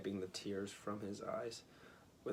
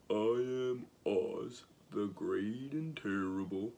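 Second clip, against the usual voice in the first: trembling voice; 6 dB louder, slower than usual. A narrator's reading. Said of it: "in a trembling voice".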